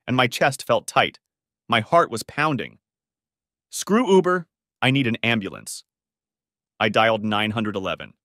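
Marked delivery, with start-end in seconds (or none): 3.7-5.8 panicked. Acted. Panicked on sidewalk.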